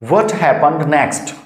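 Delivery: very slow, words pulled apart; slow model question. Shown as a demonstration. Teacher modelling a question very slowly. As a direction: ask it slowly so learners can repeat. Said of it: "इसमें फिर आगे क्या हुआ?".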